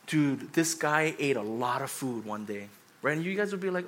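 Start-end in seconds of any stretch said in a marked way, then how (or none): 0.0-2.7 casual Pastor Kenny. Retold or imitated. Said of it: "imagine Pastor Kenny says".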